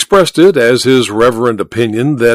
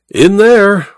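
higher, louder insistence; emphatic repeat; 8 semitones higher, 4 dB louder than usual. A narrator's reading. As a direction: press the point home. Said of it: "repeated Welton".

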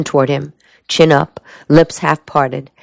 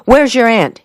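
higher-pitched abrupt question; sudden demand; 7 semitones higher than usual. A narrator's reading. Pacing soldier questions Helen, sudden demand. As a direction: demand it out of nowhere. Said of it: "he demanded suddenly".

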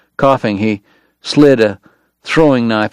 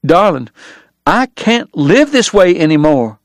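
weary; 6 semitones higher than usual. Acted. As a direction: say it tired, final. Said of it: "the words she feared most".

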